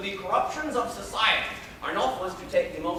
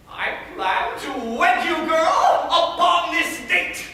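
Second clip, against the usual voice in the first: lightly voiced domineering guardian declaiming in verse; Arnulf. Arnulf telling his ward she must marry him, lordly and smug. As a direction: lay down the rules of marriage, smug and superior. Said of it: "I was to play the character of".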